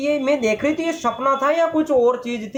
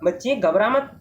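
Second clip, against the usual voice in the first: put-on letter box comforts the girl, slowly; reassuring letter box. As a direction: soothe the scared child. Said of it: "बच्ची के पास जाकर कहता है".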